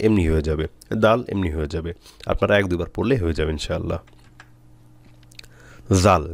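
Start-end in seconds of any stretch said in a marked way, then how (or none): 6.0-6.2 জাল opening with a voiced th-like z; tongue-tip articulation. Shown as a demonstration. Teacher introducing the letter, tongue-tip জাল. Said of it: "জিহ্বার আগা দিয়ে বলতে হবে".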